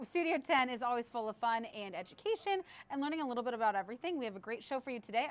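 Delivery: talking around a mint; mint in mouth. Real, not acted. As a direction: mouth full, mint on tongue. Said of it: "I apologize for having a mint in my mouth".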